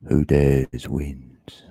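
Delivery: hushed, slow, all breath; slow whisper. Shown as a demonstration. To the stream, whispering the motto slowly. Repeats motto in two takes.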